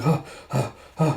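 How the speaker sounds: short huffed breaths; imitated panting. Fighter freezes mid-strike, lightly mimicked panting. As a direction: mimic being winded, lightly. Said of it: "he's just, like, panting".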